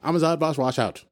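hammed-up villain boast "I'm a Zotvash washout"; playful Halloween alter ego; mock alter ego. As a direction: declare it like a proud villain. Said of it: "we have alter egos now".

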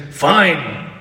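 a short, clipped "Fine." that falls and ends the talk; curt "Fine.". Shown as a demonstration. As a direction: say "Fine." like a door closing. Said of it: "Is that different than if I say".

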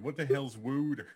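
"wooter" said with an oo in place of water; mock Philly "wooter", oo in the first syllable; Philly pronunciation. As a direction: say "wooter" like a thick Philly local. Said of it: "don't say it like a stupid man".

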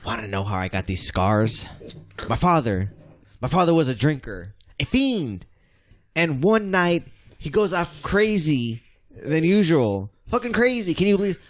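Heath Ledger Joker. Acted. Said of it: "I am Heath Ledger".

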